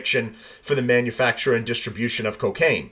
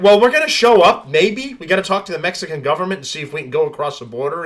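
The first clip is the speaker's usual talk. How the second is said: mock-casual official, higher and louder; 4 semitones higher, 4 dB louder than usual. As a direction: sneer at the officials' excuses, pitched up. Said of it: "we're gonna be like".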